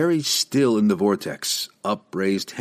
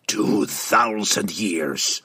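disgusted; much slower than usual. Acted. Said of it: "Gundalug spat back disgustedly".

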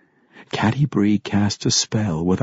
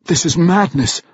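higher, anguished cry; cried out; 7 semitones higher, 4 dB louder than usual. A narrator's reading. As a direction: cry out in disbelief. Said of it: "Wulfgar cried".

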